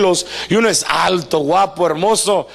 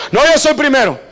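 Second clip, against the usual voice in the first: "No, yo soy primero" pushed higher and louder, stressing yo; out-argue your brother, louder each time; insistent sibling shout; 4 semitones higher, 4 dB louder, faster than usual. Retold or imitated. Preacher acting out siblings fighting over who's first, escalating shout.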